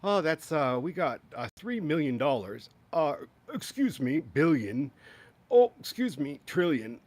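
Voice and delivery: a hint of a flustered old man correcting himself; lightly voiced, fumbling numbers; half-hearted imitation of a confused president; mock Biden flustered. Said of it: "all of a sudden he'd be going".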